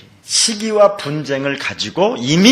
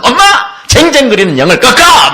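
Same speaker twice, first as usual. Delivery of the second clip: shouted command with a laugh, higher and louder; mock rebuke; 9 semitones higher, 10 dB louder than usual. Preacher shows a mother rebuking a nagging spirit, shouting. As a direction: bark it out half laughing.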